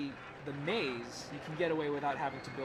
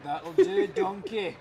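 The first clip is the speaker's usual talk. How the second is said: much higher, louder cartoon quote; silly quote voice; 7 semitones higher, 7 dB louder, much slower than usual. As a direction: squeak it out like a cartoon sidekick. Quoting a movie line in a voice.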